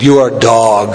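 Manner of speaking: normal talking voice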